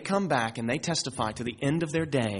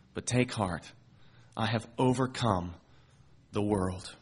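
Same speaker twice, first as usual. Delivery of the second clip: gentle reassurance, low key; 3 semitones lower than usual. Acted. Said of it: "He says in verse thirty-three".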